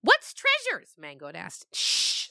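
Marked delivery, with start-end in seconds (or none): 0.0-0.9 put-on very high, loud kid goat question; squeaky goat kid. Curious kid goat asking the storyteller, very high. 1.7-2.3 a sharp whispered shh; shushing. Acted. Rafaela hushing the goats, whispered shh. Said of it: "said Rafaela".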